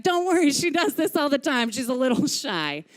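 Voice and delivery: high, loud call that eases off; grandpa calling back. Retold or imitated. Grandpa fleeing down the hall, calling back. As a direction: toss a hurried reassurance over the shoulder. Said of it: "as he's sprinting down the hall, he's like".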